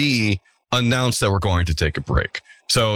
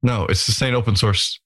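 "Open" lifted and leaned on to correct "Our"; firm correction landing on "Open"; stress on OPEN. Shown as a demonstration. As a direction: correct the title by hitting "Open". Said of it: "Is it Sustain Our Design?".

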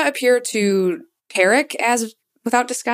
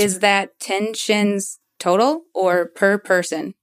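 spaced-out, lightly affected question in character; disguise voice. Acted. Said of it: "are you asking the bouncer?".

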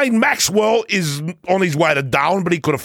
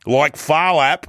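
Boris voice. Acted.

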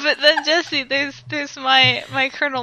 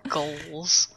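whisper; 6 semitones lower, 6 dB quieter than usual. Real, not acted. Admiring aside.

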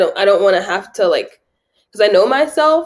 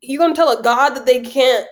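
pitched-up indignant questioning; incredulous challenge; 5 semitones higher than usual. Retold or imitated. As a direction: demand who they think they are.

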